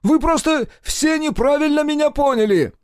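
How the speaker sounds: very high, loud protest; high yell. A narrator's reading. Mosya protests to everyone, very high yell. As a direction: shout the protest.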